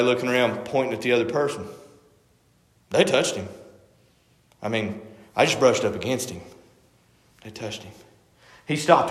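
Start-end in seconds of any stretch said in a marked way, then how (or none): 2.9-7.9 low, softened bystander excuses; under-the-breath denial, acted; hushed bystanders. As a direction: murmur it low, passing the blame. Bystanders deflecting blame in story.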